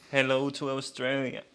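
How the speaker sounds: badly faked Australian accent; unconvincing attempt at Australian. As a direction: have a shaky go at an Aussie accent. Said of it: "Whatever that was, wasn't Australian".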